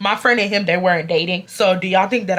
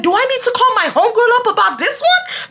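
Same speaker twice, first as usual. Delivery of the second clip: taunting; 13 semitones higher than usual. Retold or imitated. Taunting threat.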